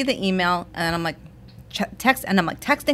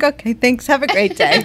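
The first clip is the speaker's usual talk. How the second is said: higher, mock-polite phone sign-off; cheery backing down; 6 semitones higher, 5 dB louder than usual. Caller retreating once it's fixed, mock-cheery and high. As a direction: switch to high, brisk politeness.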